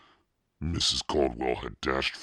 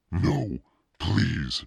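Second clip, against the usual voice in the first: higher, louder pleading no; frightened begging; 5 semitones higher, 4 dB louder than usual. A narrator's reading. Boy begging his masked sister, frightened. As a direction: beg for mercy. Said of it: "Noah begged".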